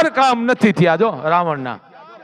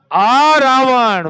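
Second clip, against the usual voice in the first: slow, louder drawn-out આ રાવણ; emphatic call; 4 semitones higher, 4 dB louder, much slower than usual. Real, not acted. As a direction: hold આ રાવણ out to the listeners. Preacher exclaims about Ravana. (ધીમો ભારપૂર્વક ઉદ્ગાર)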